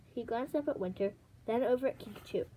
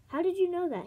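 higher, louder challenge; demanding; 7 semitones higher, 5 dB louder than usual. A narrator's reading. Winter suspiciously questioning Moon, demanding. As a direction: fire the question accusingly. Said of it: "he demanded".

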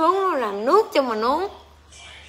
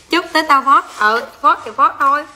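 loud retort; 3 semitones higher, 6 dB louder than usual. Real, not acted. To boyfriend during livestream, a loud comeback. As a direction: yell it back at him.

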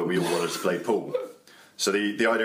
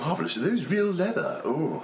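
bouncer voice; 10 semitones higher than usual. Pretend. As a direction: coo over the shoes in a high voice. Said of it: "This, this is my bouncer voice".

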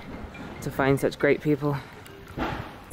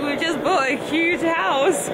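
mock indignant; 12 semitones higher than usual. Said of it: "I'm like".

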